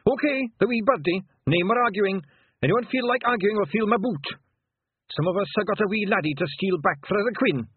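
high, loud Scottish bellow. Acted. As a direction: roar orders at the clan. Rob bellows orders at clan.

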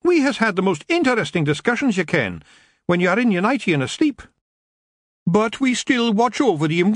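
high, lilting Scots pixie voice; a wee Scottish rogue teasing the witch; Feagle Rob, cheeky. Acted.

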